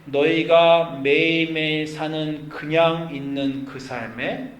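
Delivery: slow, drawn-out voice of God; steady the complainer with measured promises; calm divine reassurance. Acted. God replies to Abraham's protest.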